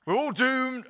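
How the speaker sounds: mock Scottish gloom, high and loud; hammed-up doom-laden Scottish wail; Private Fraser. Pastor mimics Dad's Army's Private Fraser, mock Scottish wail. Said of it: "Private Fraser used to go".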